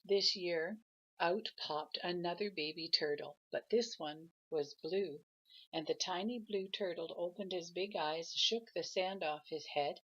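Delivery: gentle storybook read-aloud; grandma reading a picture book to her grandchild; reading aloud to a child. A narrator's reading.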